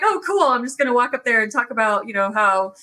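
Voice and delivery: a hint of ironic cheer; sarcastic inner voice. Mocking her own sad story, mild sarcastic cheer. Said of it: "And I'm like".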